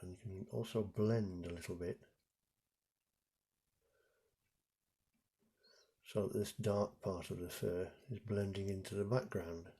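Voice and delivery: talking around a paintbrush held in teeth; muffled, brush between the teeth; paintbrush in mouth. Real, not acted. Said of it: "I'm painting with a paintbrush in my mouth, that's why I was talking funny".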